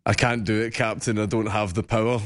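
Scottish engineer pleading to his captain; Scottish accent. Acted. Guest saying the line host asked for, Scottish accent. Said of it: "joking about Scott's cool accent".

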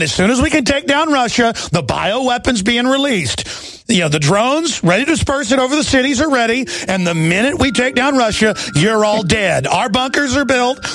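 a half-joking Bond-villain boast; mock villain voice. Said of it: "They're going".

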